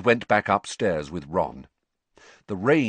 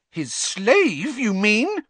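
put-on indignant girl's voice rising high and loud; rising shrilly; 13 semitones higher, 5 dB louder, much slower than usual. A narrator's reading. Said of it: "her voice rising shrilly".

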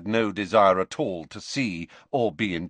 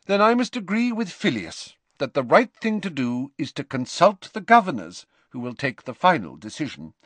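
higher, businesslike senior professor; stern headmistress figure; 9 semitones higher than usual. Acted. McGonagall deciding with staff about governors and trains, businesslike. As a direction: lay out the plan briskly and formally.

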